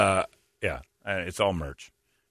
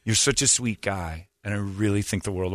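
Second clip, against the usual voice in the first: softer, lower, sincere-sounding confession; gentle let-down; 3 semitones lower, 4 dB quieter than usual. Retold or imitated. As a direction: let him down sweetly, imitating his crush. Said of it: "Kind of going".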